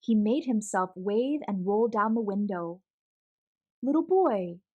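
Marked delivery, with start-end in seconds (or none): 3.8-4.6 calling out. Acted. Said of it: "he called".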